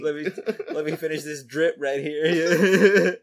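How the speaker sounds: exaggerated cartoon intonation. Mocking the put-on voice.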